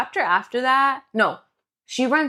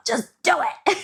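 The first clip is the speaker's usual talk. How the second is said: higher, laughing mock plea; jokey urging; 8 semitones higher than usual. Co-host jokingly voices Kai telling her to do it, laughing urging. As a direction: urge it, breaking into a laugh.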